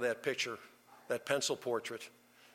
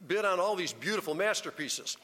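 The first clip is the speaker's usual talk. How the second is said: crowd shouting; 6 semitones higher than usual. Retold or imitated. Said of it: "They're shouting at the auctioneer".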